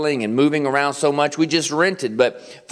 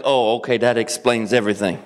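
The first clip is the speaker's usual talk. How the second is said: mock realization; 6 semitones lower than usual. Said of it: "you're like".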